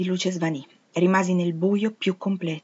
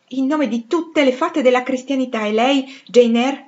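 exclaiming; 5 semitones higher, 5 dB louder than usual. Acted. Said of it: "esclamò".

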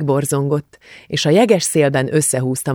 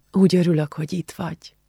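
sighed; 4 semitones higher than usual. A narrator's reading. Julcsi embracing her friend at parting, sighed. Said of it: "sóhajtotta Julcsi".

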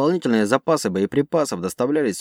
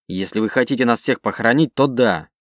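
snapping back. Acted. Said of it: "начал огрызаться".

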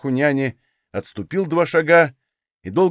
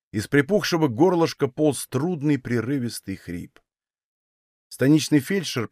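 ordinary delivery

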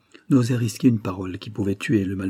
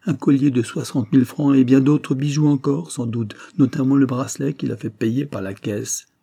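louder, higher burst of indignation; agitated outburst; 4 semitones higher, 4 dB louder than usual. Acted. Betrayed husband telling his friend of the jewels, agitated. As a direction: blurt out the accusation with raised voice.

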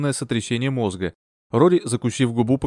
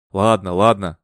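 sighing; 4 semitones lower, 4 dB louder, slower than usual. A narrator's reading. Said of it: "вздохнул мистер Бертрам".

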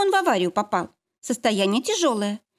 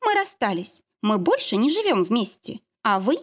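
defiant and cold; 3 semitones higher than usual. Acted. Lara defiant, ends call.

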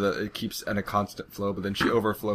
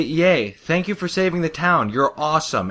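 higher, cheering thanks; mock cheering crowd; 7 semitones higher, 4 dB louder than usual. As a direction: cheer her like grateful townsfolk. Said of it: "they say".

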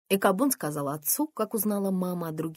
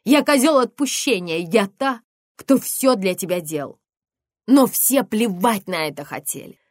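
furious scream; 3 semitones higher, 10 dB louder than usual. Acted. Mother screaming her grievance at her daughter.

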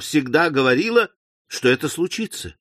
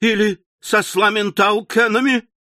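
exclaiming; 6 semitones higher than usual. Acted. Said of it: "воскликнула миссис Напкинс".

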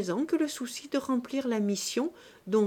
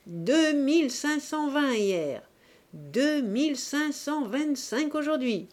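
cri triomphant, lent et plus fort; martèle les chiffres en vainqueur; triumphant shout; 5 semitones higher, 3 dB louder than usual. A narrator's reading. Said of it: "cria, simplement pour affirmer son triomphe". (cri de triomphe, lent et appuyé)

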